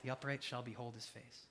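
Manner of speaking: hushed reverent reread. Shown as a demonstration. Preacher rereading the psalm's final line, hushed and reverent. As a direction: let the words land in awe. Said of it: "what an amazing final line".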